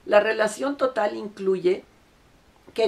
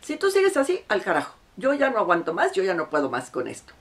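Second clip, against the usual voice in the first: annoyed partner; faster than usual. Retold or imitated. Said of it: "así lo dijo textual el señor".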